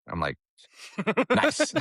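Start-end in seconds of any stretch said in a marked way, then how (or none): 1.3-1.7 ironic. Retold or imitated. Deadpan reply after being laughed at.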